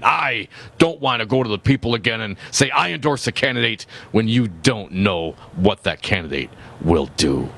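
lightly pompous politician voice; a touch of puffed-up pomposity, each phrase set apart. Acted. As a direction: read it with measured, mock self-importance. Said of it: "your most pompous voice, please, so it resembles his".

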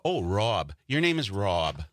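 "Rob" with a rounded aw vowel; correcting "Rob". Retold or imitated. Callers correcting his accent, "Rob" said as "Rawb". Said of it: "So now I have to say Rob".

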